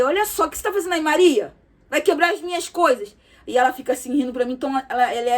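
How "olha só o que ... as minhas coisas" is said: mock scolding. Scolding niece in retold scene.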